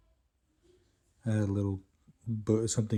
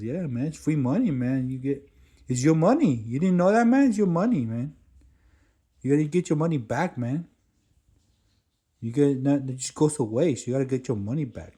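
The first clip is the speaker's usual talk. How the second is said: high, loud, eager hustler voice; pushy hustler dude; 5 semitones higher, 7 dB louder than usual. Retold or imitated. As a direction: lay on the street-hustler pitch, higher and louder. Stranger insisting on free money.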